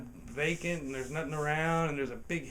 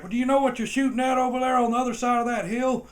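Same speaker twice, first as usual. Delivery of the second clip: mock cop voice; 9 semitones higher, 8 dB louder, faster than usual. Cop questioning, voiced higher.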